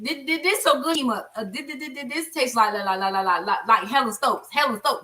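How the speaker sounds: a light stuttering cousin praising the food; imitating stuttering cousin. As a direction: stammer through the compliment, stuck on D and la. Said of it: "he stuttered so bad".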